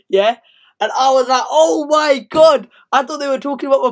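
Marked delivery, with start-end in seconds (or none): 1.5-2.7 dismayed oh my God. Retold or imitated. Mum says go to sleep.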